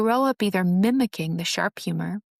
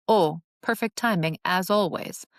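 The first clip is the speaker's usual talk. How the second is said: lightly sarcastic mock praise; a touch of dry sarcasm. Shown as a demonstration. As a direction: praise it while meaning the opposite. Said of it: "Replace sarcastic remarks".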